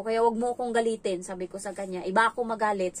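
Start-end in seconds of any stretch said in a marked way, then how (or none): 0.0-1.2 retold stern warning, a bit louder. 2.0-3.0 retold firm threat, louder; firm warning.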